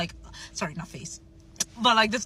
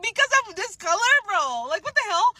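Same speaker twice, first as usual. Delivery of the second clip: higher and louder, indignant demand; retold anger; 10 semitones higher, 4 dB louder than usual. Confronting the racist customer in memory, heated. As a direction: throw the question back at her, fuming. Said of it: "And the anger I felt was".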